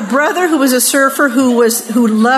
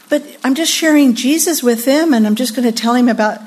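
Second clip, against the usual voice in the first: mildly naive, earnest protest; wide-eyed innocence; faster than usual. Acted. Girl defending dating an unsaved guy, wide-eyed innocence. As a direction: play the innocent, lightly. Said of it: "we're so wide-eyed about it".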